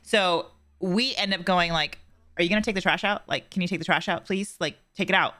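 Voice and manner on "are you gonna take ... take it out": "Are you gonna take the trash out?" with a mildly irritated, pushy edge; mild impatient demand; annoyed nagging. Shown as a demonstration. Wife showing her husband the wrong tone for the trash, mildly annoyed. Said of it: "it's that tone right there".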